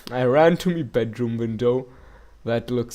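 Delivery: put-on another go at a light Scottish accent; a hint of Scottish for the neighbour's account. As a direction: lean into a mild Scottish lilt. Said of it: "I can't even do a Scottish accent".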